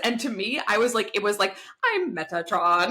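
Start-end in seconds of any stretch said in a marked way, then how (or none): 1.8-2.9 slow, mock robotic man voice. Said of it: "like, a robotic man".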